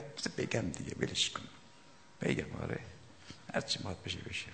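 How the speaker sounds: hushed whisper, as if sharing a secret; a mystic whispering what he dare not say aloud; whispered aside. Retold or imitated. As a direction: breathe it like a confidence. Mystic muttering his secret aside.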